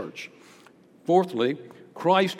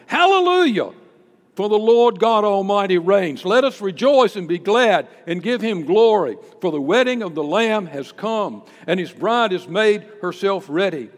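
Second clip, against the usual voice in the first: jubilant shout; 3 semitones higher, 6 dB louder than usual. Acted. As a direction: ring it out like thunder. Reading heavenly multitude's shout.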